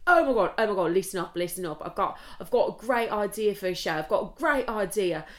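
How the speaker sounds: hammed-up English accent; put-on English accent. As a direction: imitate an eager Englishman with an idea. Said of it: "my accent is gone fucking crazy".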